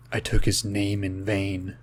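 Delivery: lightly hammed-up solemn delivery; retold movie character. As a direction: imitate a grave film confession, low and quiet. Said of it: "looks at the other character and he goes".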